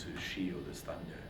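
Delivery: ordinary delivery, nothing marked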